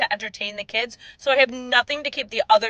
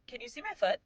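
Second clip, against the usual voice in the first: put-on tiny, high, soft kid voice; imitated little child; 10 semitones higher, 12 dB quieter than usual. Five-year-old asking mom from back seat, soft high child voice.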